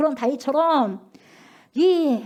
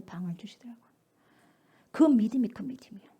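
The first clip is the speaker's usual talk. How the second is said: whisper. Real, not acted. Preacher testimony drops to whisper.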